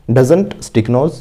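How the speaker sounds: very slow, word by word, for students to repeat; slow model sentence. Shown as a demonstration. Teacher modelling an answer for the class, very slowly. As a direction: spell each word out slowly like a dictation. Teacher shows verb form.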